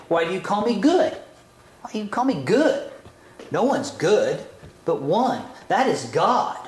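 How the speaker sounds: quick, rising "Why do you call me good?"; rebuking reading. Shown as a demonstration. Yeshua rebuking the man, quick and rising. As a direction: fire it back like a challenge. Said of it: "maybe we read it this way".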